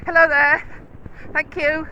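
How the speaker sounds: high, loud friendly greeting call; loud, high sing-out to a passer-by. Real, not acted. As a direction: call across to someone passing, pitched well up. Calling out to someone passing.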